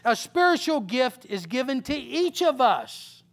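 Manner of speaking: measured, solemn reading voice; preacher reading First Corinthians; scripture reading. Acted. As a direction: read the verses deliberately. Reads scripture aloud.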